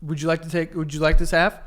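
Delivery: talking while chewing gum; words round a wad of gum. Real, not acted. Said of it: "I have gum in my mouth".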